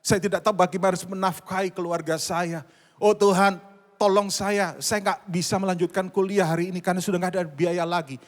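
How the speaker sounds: loud, pleading cry to God; desperate prayer. Acted. Believer begging God for help with family and tuition, desperate plea.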